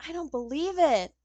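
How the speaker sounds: lightly voiced know-it-all telling someone off; exasperated young investigator.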